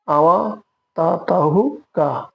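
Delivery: আওয়াতাতাহুকা run together as one word, slowly; slow run-together demo. Shown as a demonstration. Teacher showing the spoken blended form slowly. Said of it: "আওয়াতাতাউকা".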